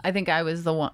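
hiccuping between words; talking through hiccups. Real, not acted. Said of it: "I have the hiccups, you guys".

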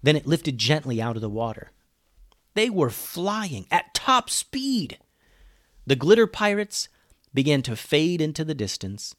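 animated storyteller, pitch rising on the exciting bits; story narration. A narrator's reading. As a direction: narrate an adventure tale with lively swings.

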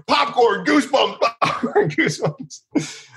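high, urgent calls fading out; panicked yelling. Retold or imitated. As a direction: cry out every safe word you know. Screaming safe words at bottle threat.

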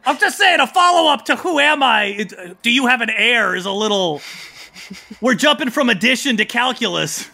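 high, flustered turtle protest; baby turtle character. Acted. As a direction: argue back in a high-pitched voice. Turtle king argues back.

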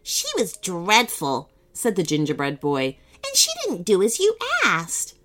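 put-on high tattling child; gingerbread boy voice. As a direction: complain like a little boy.

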